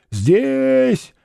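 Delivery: long drawn-out high call; drawn-out answer. A narrator's reading. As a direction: stretch the word out from afar. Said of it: "ответил протяжный голос".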